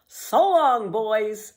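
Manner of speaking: high, loud farewell call; cheery goodbye. A narrator's reading. Pippi calls goodbye to the sailors, loud and cheery. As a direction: sing out a goodbye to the crew.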